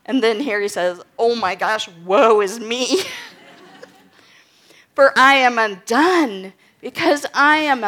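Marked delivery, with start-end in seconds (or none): 1.2-7.8 laughing dismay. Acted. Isaiah overwhelmed, voiced laughing.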